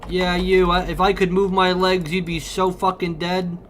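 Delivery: raging at a foe while stuck; angry threat. Real, not acted. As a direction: snarl at the enemy you can't reach. Threatening a game character.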